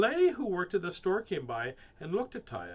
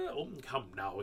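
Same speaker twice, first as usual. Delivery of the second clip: low, soft reassurance; calm the child in a low voice; soothing father; 6 semitones lower, 4 dB quieter than usual. A narrator's reading.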